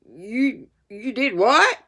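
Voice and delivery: high, rising disbelieving schoolmaster; teacher stunned by the confession; astonished disbelief. Acted. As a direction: sputter in shock. Master astonished.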